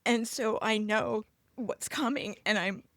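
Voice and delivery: upset, halting with long pauses; holding it together while getting upset; very emotional. Real, not acted. Daughter telling of her dad in hospice, emotional and halting. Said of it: "this is why I'm being very emotional".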